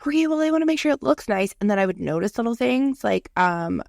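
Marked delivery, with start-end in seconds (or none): 0.0-1.5 higher-pitched fussy voice; a touch of nervous fussiness; mock fussy self. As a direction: sound a little fussy, pitched up. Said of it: "But I was like".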